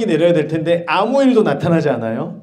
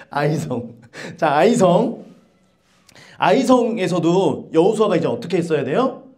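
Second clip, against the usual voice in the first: usual speaking voice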